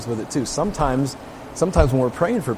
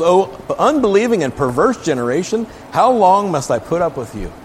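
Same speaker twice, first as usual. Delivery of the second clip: raised, exasperated rebuke to the disciples; annoyed Jesus; 5 semitones higher than usual. Acted. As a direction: scold a faithless crowd, voice lifted. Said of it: "Jesus was annoyed".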